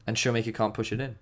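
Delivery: ordinary talk, nothing marked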